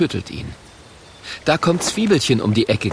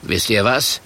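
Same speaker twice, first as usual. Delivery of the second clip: gruff monster voice; 3 semitones lower than usual. Acted. Murk threatens dragon children.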